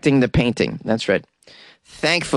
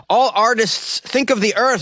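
high, hammed-up French appeal; comic high French accent; mock French accent; 9 semitones higher than usual. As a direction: proclaim it as a cartoon French protester. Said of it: "He's yelling in French".

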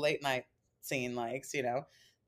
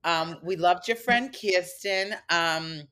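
lightly voiced picky New York friend; New Yorker impression. Friend critiquing the show's comics afterwards, mild New York impression. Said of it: "You're doing a great impression".

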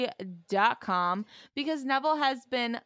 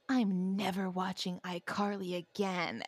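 mumbling; 3 semitones lower, 7 dB quieter than usual. Retold or imitated. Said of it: "someone mumbling".

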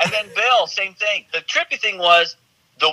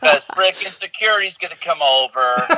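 laughing through it. Real, not acted. Guest telling host about Disneyland alone, laughing. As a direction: chuckle as you quote your own worry. Retold worry, laughing while quoting.

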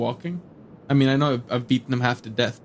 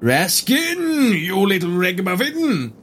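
calling out; 7 semitones higher, slower than usual. Acted. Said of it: "Tries to call within".

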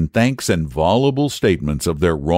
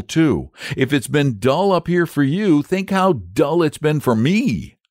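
put-on high, excited young boy; a cheeky lad teasing; eager boy voice; 8 semitones higher than usual. A narrator's reading.

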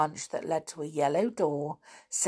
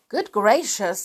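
frightened; 4 semitones higher, 5 dB louder than usual. Acted. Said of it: "looking rather frightened".

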